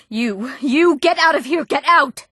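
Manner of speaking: high, agitated shout; angry shout. Acted. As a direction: drive them out with a high-pitched yell. Ordering intruder out after murder.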